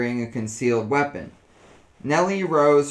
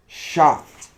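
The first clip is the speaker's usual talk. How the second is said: louder, struck by the word Shocked; shocked realization; 3 semitones higher, 5 dB louder than usual. A narrator's reading. Alvira names the tone of Nellie's voice, shocked. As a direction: land Shocked. as a sudden discovery. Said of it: "analyze the tone of her voice".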